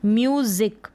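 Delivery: म्यूजिक with a buzzed z in the middle; z pronunciation. Shown as a demonstration. Teacher showing how music is read, z pronunciation. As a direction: say म्यूजिक with z, not s. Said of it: "ज पढ़ेंगे".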